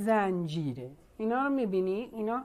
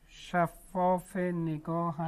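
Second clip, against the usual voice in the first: slow dictation; 3 semitones lower, much slower than usual. Real, not acted.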